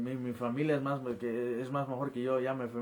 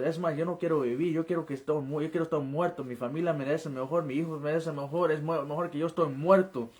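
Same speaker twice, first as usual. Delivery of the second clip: raised, insistent lament; retold yelling at God; 4 semitones higher, 3 dB louder than usual. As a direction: pour out despair to God, reliving it mildly. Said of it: "comencé a gritarle a Dios así".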